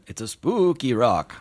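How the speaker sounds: genie voice. Acted. Genie laughing.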